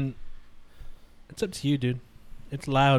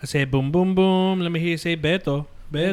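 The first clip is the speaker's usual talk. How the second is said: hyped crowd warm up; 5 dB louder than usual. Acted. Crowd call and response.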